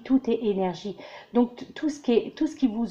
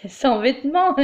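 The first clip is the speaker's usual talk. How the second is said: laughing; 4 semitones higher, 4 dB louder than usual. Real, not acted. Laughing at saying no clothes.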